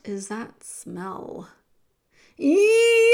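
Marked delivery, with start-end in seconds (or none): 2.4-3.1 high, loud yelp of pain; shrill-pitched animal yowl; pained scream. A narrator's reading. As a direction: scream out a sudden "yow". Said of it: "screamed Roscuro".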